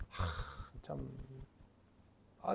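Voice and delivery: normal talking voice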